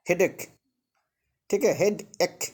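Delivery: हेडेक said with a hard k, then split as हेड एक. Shown as a demonstration. Teacher showing students ch sounds like k. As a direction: break headache into head and ache. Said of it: "तो क उच्चारण हो रहा है".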